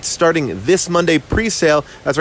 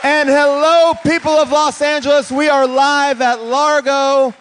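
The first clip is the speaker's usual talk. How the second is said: booming arrogant alien overlord; 9 semitones higher than usual. Pretend. Grand opening of live show.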